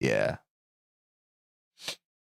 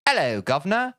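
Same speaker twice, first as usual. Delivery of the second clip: mock British accent; 3 semitones higher than usual. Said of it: "endearing when I do".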